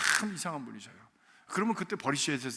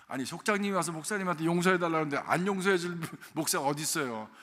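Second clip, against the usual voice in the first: usual speaking voice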